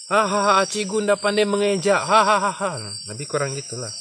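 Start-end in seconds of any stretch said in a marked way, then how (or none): 0.1-2.8 mocking laugh at the stumbling teacher; kids laughing at teacher. Retelling how the pupils laughed at their substitute teacher, mocking giggle. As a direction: laugh and tease like schoolkids. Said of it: "Balik-balik tuh budak-budak ketawa".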